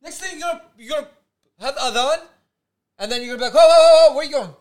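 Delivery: high, loud, laughing outraged rant; incredulous rant. Retold or imitated. Joking about guard banning things, loud incredulous rant.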